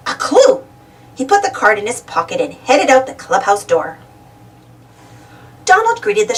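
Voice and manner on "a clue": higher duck cry of discovery; shout. A narrator's reading. Donald finding a store card in the clubhouse, shouting. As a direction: shout it like you've found the key. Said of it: "Donald shouted".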